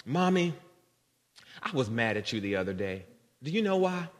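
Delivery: a hint of a little kid, voice lifting on the question; child's small voice, only lightly put on; lightly voiced young child. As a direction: lightly imitate a child timidly confronting Mommy. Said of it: "it was my youngest kid".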